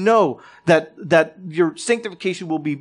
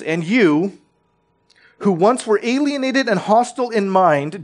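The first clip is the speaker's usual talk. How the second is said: scripture reading; 2 semitones higher than usual. Acted. Pastor reading Colossians to his church, raised and proclaiming. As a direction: proclaim the passage to the congregation.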